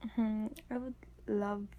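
hushed breathy ASMR whisper. Real, not acted. Whispers all through.

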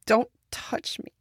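angry whisper. Acted. Pulling away from a hug.

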